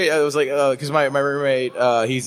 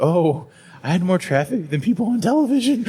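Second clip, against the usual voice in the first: laughing brag; 6 semitones higher than usual. Retold or imitated. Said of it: "And I was like".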